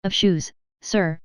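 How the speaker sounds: slow, pointed delivery with weight on "sir"; emphatic SIR. A narrator's reading. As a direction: lean heavily and deliberately on "sir". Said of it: "laying great emphasis on the word".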